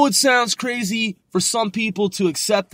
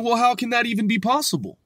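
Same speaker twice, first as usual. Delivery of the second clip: mildly imitated disbelief, quick and raised; 5 semitones higher, faster than usual. Woman answering the door to time traveler, mock disbelief. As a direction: retell her doubting question, quickly. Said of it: "she seems in disbelief".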